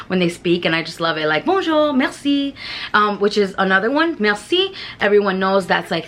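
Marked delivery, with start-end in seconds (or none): 1.4-2.5 "Bonjour, merci" sung up high and slow with a French lilt; sing-songy French. Shown as a demonstration. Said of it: "I like to add the little sing-songy sound". 4.2-4.7 "Merci" lifted high with a rising French lilt; sing-songy merci. Shown as a demonstration. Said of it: "sing-songy sound".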